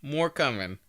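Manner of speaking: high, slow, teasing dodge; playing coy. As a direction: drag it out like you're hiding a secret. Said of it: "they're definitely playing coy".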